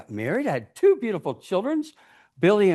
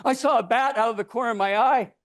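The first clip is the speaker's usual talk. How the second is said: ordinary delivery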